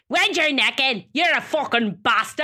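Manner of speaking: playful Irish swearing; Irish accent. Shown as a demonstration. Showing off accents for swearing, Irish accent.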